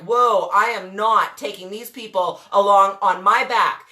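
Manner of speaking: drawing a line, slowly; slow, firm refusal. Retold or imitated. Telling herself she's done carrying them, slow and firm. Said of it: "I'm like".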